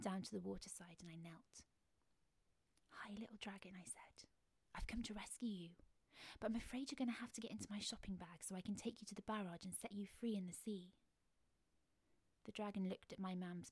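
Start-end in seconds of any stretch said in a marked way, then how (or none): 2.9-10.9 soft whispered coaxing; gentle soothing. Acted. Child kneeling to rescue the little dragon, soft whispered coaxing. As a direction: coax a scared creature quietly.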